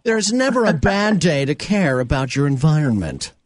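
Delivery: lofty sermonizing tone; pretentious preachy voice. Acted. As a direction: deliver it like a smug moral lesson. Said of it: "this is my pretentious, preachy voice".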